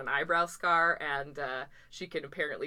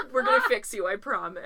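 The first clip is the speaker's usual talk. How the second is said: laughing; 2 semitones higher, 6 dB louder than usual. Retold or imitated. Voicing trainers' reassurance, laughing.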